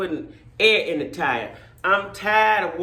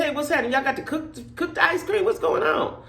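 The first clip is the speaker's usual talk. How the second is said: mock yelling at the window; 6 semitones higher than usual. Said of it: "I said".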